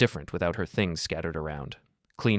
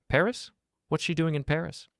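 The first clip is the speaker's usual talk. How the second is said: pitched high, incredulous; can't believe her ears; shocked disbelief; 9 semitones higher than usual. Acted. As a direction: sister hearing her sister is in Paris, startled. Sister shocked by news.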